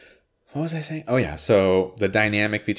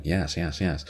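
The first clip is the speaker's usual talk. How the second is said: Jeff Goldblum impression; slower than usual. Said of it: "like Jeff Goldblum".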